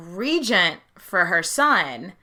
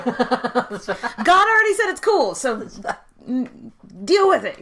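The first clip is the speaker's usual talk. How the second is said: mock insistence; 3 semitones higher, slower than usual. Defending the coronation as God's will, in mock insistence. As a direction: settle the argument with playful finality. Same objectors invoking God, joking.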